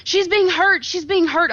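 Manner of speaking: put-on panicked kid. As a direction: squeak it out like a scared child calling for help. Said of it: "and then one little kid runs out and he's like".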